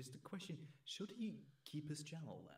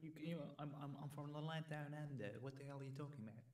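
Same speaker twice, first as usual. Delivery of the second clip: put-on Australian accent. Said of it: "continue my Australian accent here".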